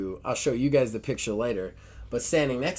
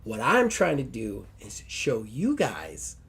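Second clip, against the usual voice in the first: put-on valley girl Barbie; 2 semitones higher than usual. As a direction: squeal it like an excited valley girl. Barbie voice again.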